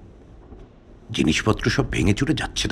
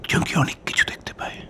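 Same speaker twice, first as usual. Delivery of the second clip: softer, secretive whisper; hushed whisper; 4 semitones lower, 8 dB quieter than usual. Acted. Host confides to guest about the cat, whispering. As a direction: lean in and confide it under your breath. Whispered black magic talk.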